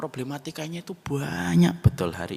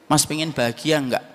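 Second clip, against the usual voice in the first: insistent question; 8 dB louder than usual. Retold or imitated. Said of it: "tidak sesuai dengan apa yang saya pikirkan".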